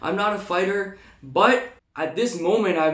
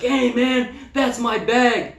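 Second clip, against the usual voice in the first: casual crackhead voice; 6 semitones higher, slower than usual. Retold or imitated. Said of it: "he's like".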